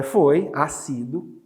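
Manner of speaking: normal talking voice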